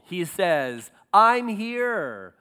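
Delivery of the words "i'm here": loud drawn-out Behold; loud call. Acted. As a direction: call Behold like pounding on a door. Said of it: "bang on the door hard".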